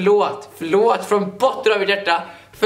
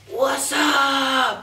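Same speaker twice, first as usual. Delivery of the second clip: higher yelled greeting; shouting; 6 semitones higher than usual. Retold or imitated. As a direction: burst in with a yell. Student bursting in again. (skrikande hälsning)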